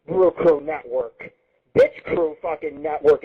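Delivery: slow, scornful renaming; slow sneer. Real, not acted. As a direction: drag the name out, then twist it into an insult. Slow mocking renaming of show.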